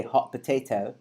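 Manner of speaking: British-accent warm-up phrase; mock British vowels. Shown as a demonstration. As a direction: say it in put-on British English. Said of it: "me with the British".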